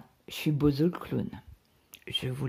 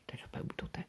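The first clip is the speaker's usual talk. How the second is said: soft breathless mimic of the husband; mocking echo; 14 dB quieter, much faster than usual. Wife mocks husband's offhand diagnosis, soft and whispered. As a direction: echo his shrug under your breath. Repeats husband's dismissive words.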